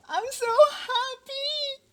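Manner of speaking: overjoyed shout, high and loud; bursting with happy news, laughing; real excited squeal of good news; real joy. Real, not acted. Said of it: "and I'm just so excited".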